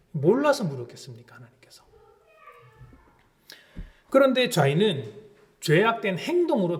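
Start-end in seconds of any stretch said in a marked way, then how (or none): 0.1-1.8 hushed rhetorical whisper. Real, not acted. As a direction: whisper the question to the congregation. Rhetorical aside to congregation. (속삭이듯 반문하며)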